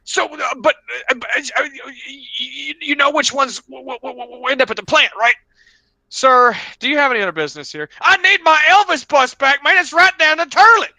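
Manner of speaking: stammering caller. Retold or imitated. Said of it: "And he goes".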